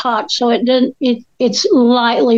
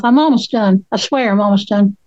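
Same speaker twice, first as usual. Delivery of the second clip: mouth full; 3 semitones lower than usual. Real, not acted. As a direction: still chewing while talking. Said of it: "pardon my crunching and my full mouth".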